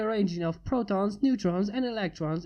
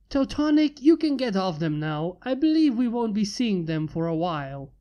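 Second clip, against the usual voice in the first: commanding call; 3 dB louder than usual. Acted. Creator commands his robot.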